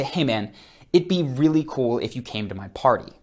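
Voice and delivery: mean it, as if they really should come; firmer invitation. Shown as a demonstration. Coach contrasting a firmer party invite to viewers. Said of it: "I did change my tonality".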